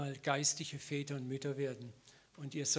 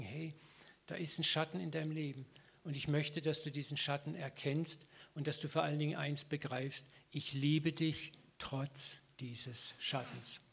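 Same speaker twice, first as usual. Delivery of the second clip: tender whisper. Acted. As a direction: reassure him gently, slowing down. Jesus tender words to Peter.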